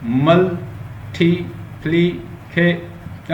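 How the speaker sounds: "मल्टीप्लिके-" very slowly, a pause after each syllable. Shown as a demonstration. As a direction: break "मल्टीप्लिके-" into separate beats, mul, ti, pli, ke. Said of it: "उतने वो syllable होंगे". ("मल्टीप्लिके-" एक-एक syllable रुक-रुककर)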